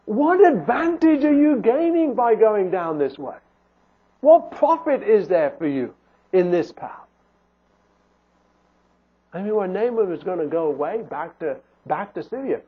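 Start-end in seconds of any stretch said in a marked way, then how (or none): 0.0-7.1 lightly acted preacher's appeal. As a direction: challenge the sinner as a preacher would. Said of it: "the preacher saying".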